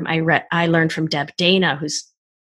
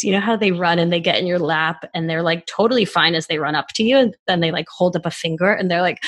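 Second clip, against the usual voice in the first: normal talking voice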